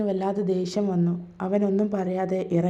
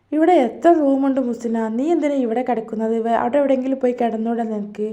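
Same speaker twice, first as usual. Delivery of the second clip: louder, fast, exasperated demand; angry outburst; 3 semitones higher, 3 dB louder than usual. Acted. Husband angrily telling his wife to sleep elsewhere, raised and fast. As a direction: drive her out of the room with annoyance.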